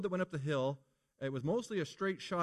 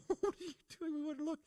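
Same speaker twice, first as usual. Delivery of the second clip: shocked yell; 13 semitones higher, 3 dB quieter than usual. Retold or imitated. Shocked kids watching crash.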